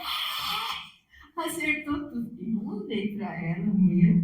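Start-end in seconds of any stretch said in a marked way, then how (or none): 0.0-1.4 mock gasp. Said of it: "todo mundo".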